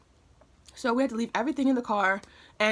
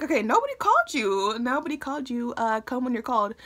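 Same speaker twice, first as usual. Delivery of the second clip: mom's sass; 4 semitones higher than usual. Retold or imitated. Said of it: "ready to tackle a situation".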